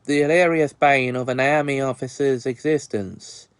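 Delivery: a lightly put-on, bad Australian accent; hammed-up mock Australian with bloody and mates; bad fake Aussie accent. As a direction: fake an Australian accent, not too well. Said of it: "probably the worst fake Aussie accent".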